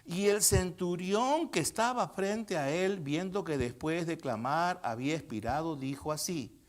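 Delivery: slow, measured Bible reading; solemn scripture reading. Real, not acted. Preacher reading the temple veil passage to congregation, slow and measured. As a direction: read it out slowly, phrase by phrase.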